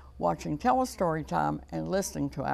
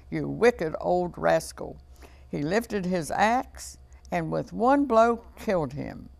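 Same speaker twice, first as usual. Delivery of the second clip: measured, lively storybook narration; story reading to children. A narrator's reading. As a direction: tell a fairy tale to young children. Reads fairy tale to children.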